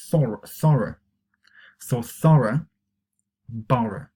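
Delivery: "thorough" and "borough" ending in a British schwa; careful British "thorough", "borough", word by word; British pronunciation. Shown as a demonstration. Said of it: "The pronunciation we're going to concentrate on".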